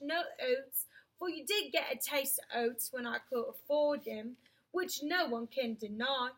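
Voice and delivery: slow, earnest London cabby; cockney cabby voice. Acted. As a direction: reason with the horse like a cabman. Cabby explaining to horse.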